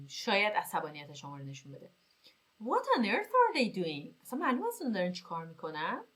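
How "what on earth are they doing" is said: surprise. Shown as a demonstration. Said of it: "تعجب".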